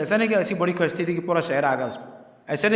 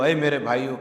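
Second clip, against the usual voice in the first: loving address; 4 semitones lower than usual. Shown as a demonstration. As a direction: plead اے میرے بھائیو with love, tune lifting at the end. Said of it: "بڑی محبت سے".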